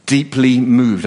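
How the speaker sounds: deeply moved drawn out slowly, weight on deeply; slow stressed phrase. Real, not acted. Preacher to congregation, stresses deeply moved slowly. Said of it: "the phrase is deeply moved".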